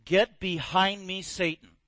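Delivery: slow, stern rebuke; Jesus rebuking Peter slowly and sternly; angry rebuke. Retold or imitated. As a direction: cut him off deliberately. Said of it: "Jesus got angry and said".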